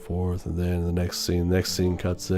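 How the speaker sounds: low, soft monotone mumble; mock hushed dialogue. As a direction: imitate characters murmuring back and forth under their breath. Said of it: "start talking like this to each other".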